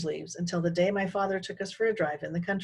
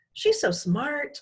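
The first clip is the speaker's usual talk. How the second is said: mother; 8 semitones higher, much slower than usual. A narrator's reading. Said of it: "my mother says".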